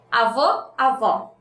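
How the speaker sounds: Avô with closed "oh", avó with open "aw"; Avô बंद "ओ", avó खुला "ऑ". Shown as a demonstration. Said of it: "Can you hear the difference?".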